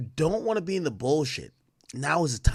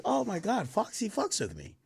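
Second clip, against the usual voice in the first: excited fan; 8 semitones higher, 4 dB quieter than usual. Retold or imitated. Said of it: "I'm like".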